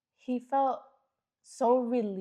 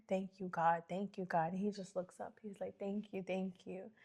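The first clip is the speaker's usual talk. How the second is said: softer, hushed, lightly imitating tearful thanks; retold tearful thanks; 2 semitones lower, 9 dB quieter than usual. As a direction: murmur it like a grateful mother in tears. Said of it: "and then they're crying".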